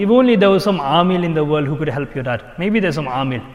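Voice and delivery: lightly mocking suggestion, said out loud; sarcastic, loud. Doubting student talking about healers to a worried son, sarcastic. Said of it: "I said it sarcastically, loudly".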